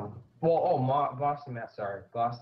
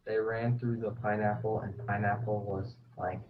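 loud parody narration; mock dramatic reading; 16 dB louder than usual. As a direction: ham up the battle text.

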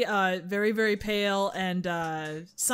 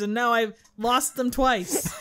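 laughing; 4 dB louder, slower than usual. Real, not acted. Laughing shout.

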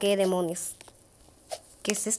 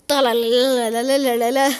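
imitated climbing noise; 5 dB louder than usual. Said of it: "es como así".

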